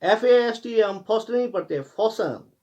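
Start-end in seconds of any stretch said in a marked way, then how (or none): 1.8-2.5 फॉसन with the T dropped; silent T. Shown as a demonstration. Teacher corrects a usual misreading, T silent in फॉसन. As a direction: say फॉसन without any T sound. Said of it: "टी silent रहता है".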